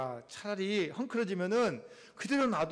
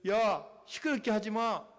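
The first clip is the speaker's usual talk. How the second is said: acted telling-off; crowd hushing him; 2 semitones higher than usual. Bystanders to the shouting blind man, hushing him. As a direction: hush someone who is making a racket. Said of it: "그렇게 말리는 거예요".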